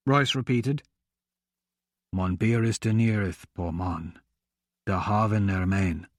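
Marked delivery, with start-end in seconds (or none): 2.1-6.1 rumbling beast. A narrator's reading. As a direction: speak like thunder from a huge beast. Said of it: "the Galarabrin replied".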